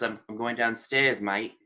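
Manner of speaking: lightly done Australian accent. Shown as a demonstration. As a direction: mimic how they say it in Australia. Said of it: "then you say in Australia".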